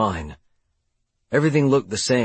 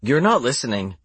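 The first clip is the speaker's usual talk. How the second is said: stubborn; 2 semitones higher than usual. Acted. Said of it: "she answered stubbornly".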